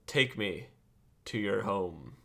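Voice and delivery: slow, hushed request, fading away; solemn character voice. Acted. Player addresses the tiger, slow solemn character voice. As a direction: intone it grandly with long pauses. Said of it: "developed this whole character".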